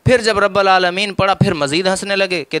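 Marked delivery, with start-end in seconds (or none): 0.4-1.1 "رب" said "rabba", with zabar for zer; deliberate vowel slip. Retold or imitated. Narrator quoting the debater's misreading, "رب" as "rabba". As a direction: say "رب العالمین" as "rabbal aalameen". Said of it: "زیر کو زبر پڑھا ہے".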